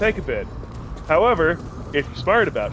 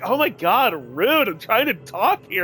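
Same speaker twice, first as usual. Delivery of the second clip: mock indignation; 6 semitones higher than usual. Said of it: "And like".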